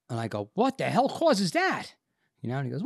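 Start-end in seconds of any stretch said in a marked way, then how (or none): 0.5-1.9 high, slow, alarmed demand; mock panic. Patient asking doctor the cause, alarmed. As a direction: stretch the question up high in disbelief.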